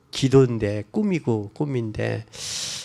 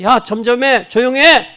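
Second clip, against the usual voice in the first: much higher, louder harsh rebuke; scolding shout; 9 semitones higher, 8 dB louder than usual. Retold or imitated. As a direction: shout the blind man down. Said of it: "그 사람들이 꾸짖어". (소경을 꾸짖는 높은 고함)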